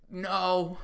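high little put-on voice; mock weak reply. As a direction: squeak out a reply in mock distress. Acting dazed reply to wrestler.

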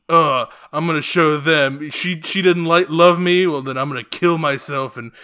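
mock sulky teen. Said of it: "classic incel teenager behavior".

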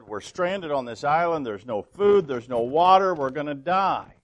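hammed-up yelling right in his friend's face. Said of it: "got right in his face and said".

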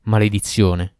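a touch of angry exclamation; exclaimed curse. Acted. Ifrit cursing at the girl's denial, mild exclamation. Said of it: "esclamò l'Ifrit".

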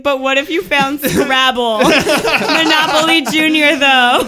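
mock interview question. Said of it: "then be like".

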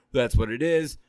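slightly rough, sick voice; a little hoarse from a cold; gravelly voice. Real, not acted. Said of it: "if I sound a little gravelly".

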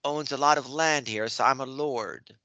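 badly faked posh London accent; attempted English accent. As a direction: play a London lord with an unconvincing English accent. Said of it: "with an English accent".

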